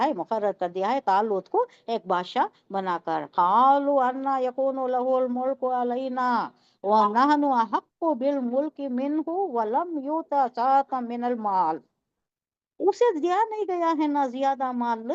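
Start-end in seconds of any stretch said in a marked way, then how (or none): 3.3-11.8 slow, measured Arabic recitation; teacher reciting scripture in long even tones; Quran recitation. Shown as a demonstration. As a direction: recite the verse slowly, drawing out the long vowels. Recites the verse before explaining it.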